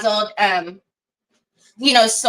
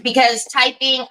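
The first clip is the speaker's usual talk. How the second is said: talking around a mint; mouth full. Real, not acted. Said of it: "I have a mint in my mouth".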